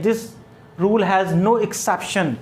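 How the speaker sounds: very slow, word by word; slow emphatic rule. Shown as a demonstration. Teacher telling students the rule has no exception, very slow. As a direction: lay down the rule slowly. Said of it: "teacher stresses the rule".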